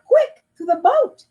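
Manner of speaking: high hurried command; rally everyone to move; father rushing to the rescue; urgent. Acted. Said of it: "exclaimed Papa".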